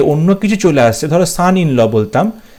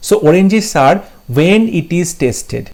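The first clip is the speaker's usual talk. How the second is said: slow dictation; 2 semitones higher, much slower than usual. Shown as a demonstration. Reading the option slowly.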